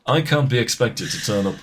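put-on weary, restrained Scouse accent; Constantine. Constantine complaining to podcasters, understated Scouse. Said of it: "he'd say something like that".

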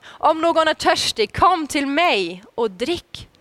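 calling out to the crowd, slow on the last words; called out. Acted. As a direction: ring it out like a call across the square. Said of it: "då ropar han". (ropande till folket)

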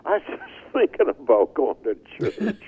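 high, laughing fake enthusiasm; a hint of a smug liar, laughing; fake eager agreement. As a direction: lie cheerfully and crack up halfway. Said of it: "I lied through my teeth".

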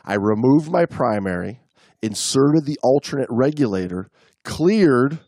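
measured read-aloud storytelling; story narration. A narrator's reading. Reading a diver's account to the co-host, story narration. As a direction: read it out in deliberate phrases, pausing between them.

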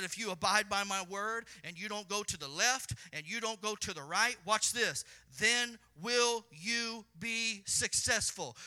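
building to a loud, slowed promise; quoting God. Acted. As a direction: swell up and draw out the last words. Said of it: "He said".

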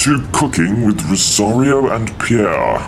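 slow mock posh British host; a light British accent on the welcome; Queen's English. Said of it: "Translate it into the Queen's English".

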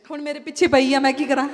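words through real laughter; giggling while protesting; laughing. Real, not acted. Speaker laughing at a friend's teasing, words through giggles. Laughing at being put on the spot.

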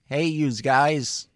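loud, drawn-out "yous guys"; catchphrase voice. Acted. Actor trying out a film line, loud catchphrase voice. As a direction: belt out a slow catchphrase. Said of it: "I'll say something like".

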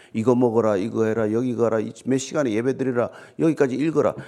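low, even list of commands; rote orders. Retold or imitated. Imitating someone dictating religious rules to followers, rote orders.

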